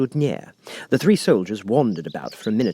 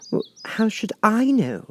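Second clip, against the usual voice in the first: bold Alice; 13 semitones higher than usual. A narrator's reading. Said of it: "surprised at her own courage".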